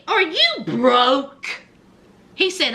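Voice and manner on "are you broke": slow, drawn-out mock challenge; pointed question. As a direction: stretch the words out, imitating an accuser. Retold pointed question in quarrel.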